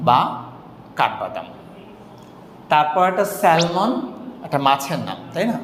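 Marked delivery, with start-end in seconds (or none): 3.4-3.9 স্যালমন with the L sounded; common mispronunciation. Shown as a demonstration. Teacher lists the fish as people misread it, common mispronunciation of স্যালমন. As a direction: say স্যালমন as spelt, with a clear L. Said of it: "স্যালমন তো একেবারেই না".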